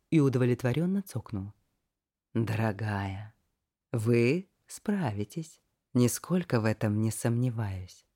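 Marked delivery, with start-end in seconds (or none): 2.3-8.0 condescending. Acted. Kaik condescending slow.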